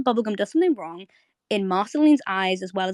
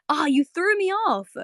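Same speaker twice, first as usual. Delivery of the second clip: higher, slow annoyed complaint; mock pissed off; 9 semitones higher than usual. Marceline to Bubblegum, imitated annoyance. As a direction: imitate someone really thrown off. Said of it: "she's really pissed off".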